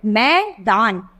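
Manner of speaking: मैदान slowly, drawing out the ai as a clear ए; drawn-out vowel. Shown as a demonstration. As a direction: stretch मैदान so the ऐ vowel is heard. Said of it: "ए की sound आएगी".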